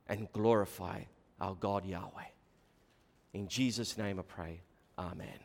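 soft, hushed opening prayer; quiet prayer. Acted. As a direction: pray quietly before the sermon.

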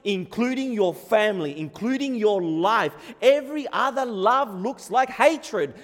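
loud, insistent sermon delivery; impassioned preaching. Real, not acted. Preacher explaining what Jesus demands, impassioned preaching. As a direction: build the intensity phrase by phrase.

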